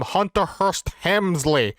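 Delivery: lightly put-on announcing of a name; Pat Patterson impersonation. Retelling how a wrestler addressed the crowd, light impersonation. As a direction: give the name a touch of mock ceremony. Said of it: "he calls him".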